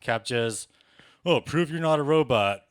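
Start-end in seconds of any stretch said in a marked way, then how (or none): 1.2-2.6 mock the captcha, higher and louder; loud, higher mimicking jeer; mocking demand. Comic mimicking a captcha's demand to prove he's human, mocking.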